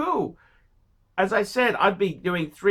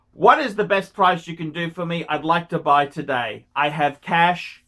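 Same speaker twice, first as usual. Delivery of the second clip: polite buyer; 3 semitones lower than usual. Shown as a demonstration. Coaching viewer on asking a dealer, calm and polite. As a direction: model the calm ask to the dealer. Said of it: "you say".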